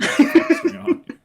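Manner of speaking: high, loud alarmed yell; shocked shout. Retold or imitated. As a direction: yell in disbelief. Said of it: "And I was like".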